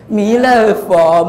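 弥勒佛 drawn out slowly. Shown as a demonstration. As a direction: stretch it out for the kids. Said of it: "刚才说是什么神". (拉长慢慢念弥勒佛)

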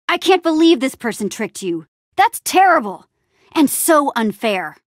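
be outraged on a friend's behalf; indignant. Acted.

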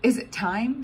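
high, eager little voice asking; child bursting to know; eager question. A narrator's reading. Excited girl asking her grandpa. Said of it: "she kept saying".

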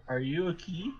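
stiff mechanical robot voice. Acted. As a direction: speak like a flat, mechanical robot. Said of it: "They said in a robotic voice".

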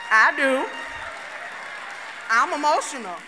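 a sudden loud burst, owning it; loud confession. Real, not acted. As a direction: shout out the admission to the crowd. Confessing loudly to the audience.

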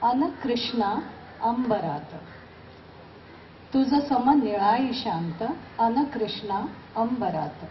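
measured Marathi verse, pausing after each phrase; emphatic openings, falling cadences; poem recitation. Acted. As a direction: recite your poem to an audience, lifting key words.

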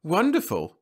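high, bright-eyed delight; a woman's lilting, glowing reply; radiant. A narrator's reading. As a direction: beam it out, thrilled to talk. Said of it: "she was radiant".

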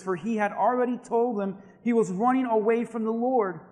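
animated Bible narration, building in energy; scripture story reading. A narrator's reading. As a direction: tell it with mounting drama. Reads scripture aloud as a story.

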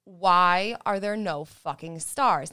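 "fucking stars" stressed hard and slowly in exasperation; exasperated emphasis. Real, not acted. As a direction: punch out "Why are there no fucking stars" word by word. Exasperated, insistent repeated question.

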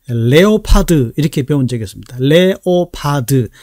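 "레오파드" spelled out as four full syllables; even, letter-by-letter "레오파드"; wrong Korean-style leopard. Shown as a demonstration. 이렇게 배운 적이.

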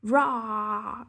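loud roaring Rah. Acted. Hidden Posy roaring at the greedy bird, loud roar. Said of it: "roared a voice".

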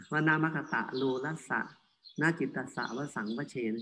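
"วนามัคตะโลลัสสะ นาจิตตัสสะวสังวเชน" in groups of two or three syllables; pausing by word group. Shown as a demonstration. Monk teaching Pali, "วนามัคตะโลลัสสะ นาจิตตัสสะวสังวเชน" read group by group. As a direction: stop briefly after each word in "วนามัคตะโลลัสสะ นาจิตตัสสะวสังวเชน". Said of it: "เราต้องหยุดอยู่ที่สองหรือสามพยางค์".

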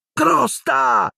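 high, stunned cry of the rat's name; boy gasping out his lost pet's name; astonished exclamation. A narrator's reading. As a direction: blurt the name, thunderstruck. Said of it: "esclamò Ron esterrefatto".

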